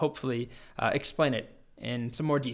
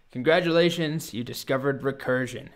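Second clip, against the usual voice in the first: a touch of self-satisfied dragon; smug dragon. Acted. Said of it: "the dragon smugly says".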